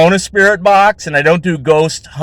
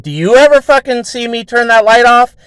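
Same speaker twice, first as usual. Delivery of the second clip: higher, pressing demand; rattled accusation; 8 semitones higher than usual. Retold or imitated. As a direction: grill her about the light. Demanding answer about the light.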